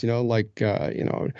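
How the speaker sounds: ordinary delivery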